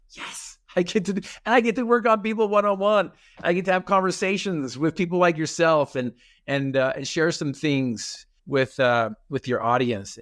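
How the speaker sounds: high, thrilled and bubbling over; excited self-quote. Retold or imitated. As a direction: gush with delight at your luck. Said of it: "And I'm like".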